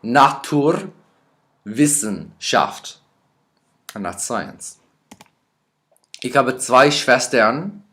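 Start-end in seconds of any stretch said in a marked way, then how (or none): 0.0-3.0 slowly, each syllable clear; a slow spelling-aid delivery; slow careful word. Shown as a demonstration. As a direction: draw the word out for the class. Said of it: "might not be able to spell correctly".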